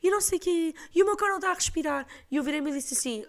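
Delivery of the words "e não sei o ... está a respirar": put-on quick, high, pleading old lady voice; pleading neighbour. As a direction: beg for help in a rush, pitched up. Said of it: "E ela assim". (a vizinha a implorar ajuda, depressa e aguda)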